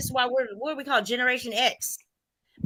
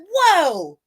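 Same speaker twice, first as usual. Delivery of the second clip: loud, high exclamation of shock; startled realization; 7 semitones higher, 7 dB louder than usual. Retold or imitated. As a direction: pull up short, startled. Retells sudden shock at the lyrics.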